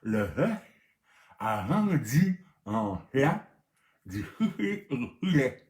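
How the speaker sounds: lecture en riant. Shown as a demonstration. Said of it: "On recommence".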